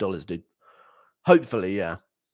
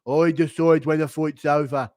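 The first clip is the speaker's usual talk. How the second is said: whispered threat; whispered referee threat; menacing whisper; 4 dB louder than usual. Retold or imitated. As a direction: hiss it close to his ear. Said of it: "J D M and Goddard arguing".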